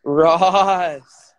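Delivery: playful elongated exclamation; drawn-out cheer. Acted. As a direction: stretch the name out like a fan cheering. Playfully echoing a favourite character's name.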